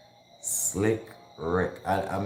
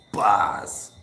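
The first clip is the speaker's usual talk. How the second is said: whispered; 4 dB louder than usual. Real, not acted. Whispered emphasis.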